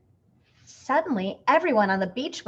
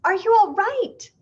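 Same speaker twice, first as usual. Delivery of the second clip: high, loud worried cry; alarmed cry after the fall; 11 semitones higher, 9 dB louder than usual. A narrator's reading. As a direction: cry out as they scramble up. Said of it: "Missus Prim cried out".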